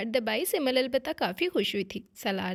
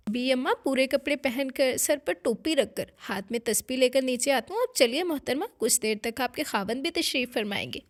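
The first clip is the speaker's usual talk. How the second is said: mock-formal, louder teasing bow of a speech; sarcastic; 5 dB louder than usual. Husband mocking his wife's prudishness with sarcastic formality. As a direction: ham up exaggerated courtesy to poke fun. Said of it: "लहजे में तंज था".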